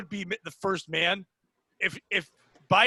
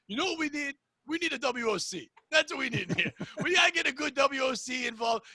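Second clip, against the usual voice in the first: lightly voiced Italian mob boss, higher pitch; a hint of a mafia boss, pitched up; Nick Mullen's mob boss; 5 semitones higher than usual. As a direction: retell a mob boss impression. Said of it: "Nick Mullen was doing an impression of, um, like, an Italian mob boss".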